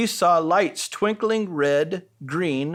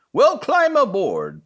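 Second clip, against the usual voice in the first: higher, louder puffing train voice; puffed; 6 semitones higher, 5 dB louder than usual. Acted. Friendly train inviting Little Red aboard, puffing. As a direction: puff it out like a steam engine. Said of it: "puffed Little Train".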